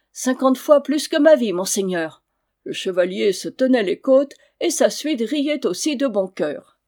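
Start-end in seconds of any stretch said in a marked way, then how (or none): 0.1-2.2 much louder, higher, without hesitation; earnest outburst. Acted. Boy answers the knight without hesitating, earnest. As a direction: answer straight from the heart. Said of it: "répondit-il sans balancer".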